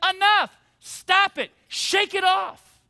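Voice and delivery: firm, sharp enough, then a slow shake it off; God's firm command. Acted. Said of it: "God comes and he says".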